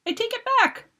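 high pleading shriek; panicked shriek. Acted. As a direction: beg them to stop. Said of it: "she shrieked".

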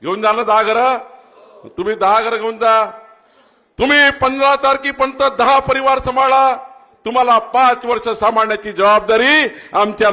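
very loud and high, driving; rally shout. Real, not acted. Politician promises the crowd care for five years, shouting. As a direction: drive the promise home at full volume.

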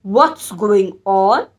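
slow, cross cat asking. Acted. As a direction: drag out a grumpy cat's question. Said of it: "He twitched his tail crossly".

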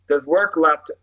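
slow, careful German phrase. Shown as a demonstration. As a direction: quote it in German, deliberately.

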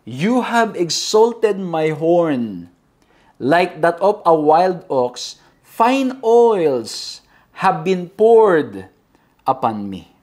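very slow, measured verse reading; scripture reading. Acted. Preacher reads verse ten to the congregation, slow solemn declamation. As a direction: read it out with weight, pausing between phrases.

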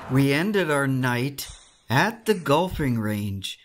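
unhurried storytelling voiceover; vlog voiceover narration. Acted. Recaps the night in voiceover.

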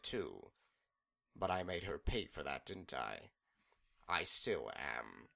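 sly mocking villain voice; taunting villain. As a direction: tease her, playful then rising. Discord taunts Celestia.

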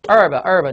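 "herb" with the H dropped; silent H. Shown as a demonstration. Teacher shows class what remains without H, silent-H "herb". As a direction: say "herb" as "erb", starting on the vowel. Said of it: "它把这个H给脱落掉了".

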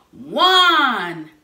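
loud, high count building; rising loud count; shouted countdown. Real, not acted. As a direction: count it off loud to fire up the church. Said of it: "On the count of three".

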